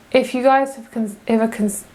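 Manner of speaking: put-on slipping into a light Australian accent; a hint of an Australian accent; accidental Australian accent. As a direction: say it half Australian without meaning to. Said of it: "that was a really bad accent".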